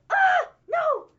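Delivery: high, loud hammed-up yelp; mock cry of alarm. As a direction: act out the panic while falling. Reenacting the fall, crying out.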